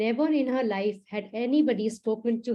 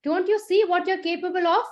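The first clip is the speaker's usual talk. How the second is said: furious; 6 semitones higher, faster than usual. Acted. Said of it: "He was now more furious".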